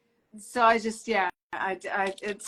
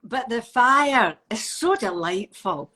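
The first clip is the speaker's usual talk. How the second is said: Scottish accent; 5 dB louder, slower than usual. Shown as a demonstration. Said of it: "in a Scottish accent".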